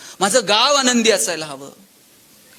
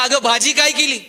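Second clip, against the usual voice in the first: calling from the sofa; 5 semitones higher, 5 dB louder than usual. Retold or imitated. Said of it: "तिथून आवाज दिला".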